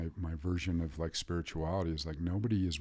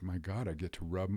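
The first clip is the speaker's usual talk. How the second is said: put-on, mock tearful crying voice. Retelling thanking his father while rubbing his feet: imitating own past crying. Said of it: "just crying".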